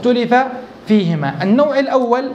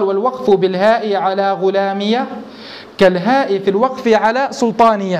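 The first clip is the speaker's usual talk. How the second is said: slow verse recitation. Acted. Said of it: "فقال".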